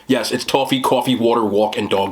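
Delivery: "toffee, coffee, water, walk, and dog" all with the open Jersey aw vowel. Shown as a demonstration. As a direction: list them proudly in a Jersey accent. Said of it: "'cause I pronounce it toffee".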